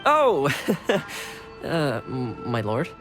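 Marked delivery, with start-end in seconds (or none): 0.5-1.3 awkward laugh. Acted. Retainer caught out about the drink.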